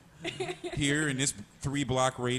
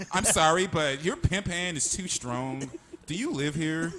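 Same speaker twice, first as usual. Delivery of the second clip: mock prissy neighbor; 4 semitones higher than usual.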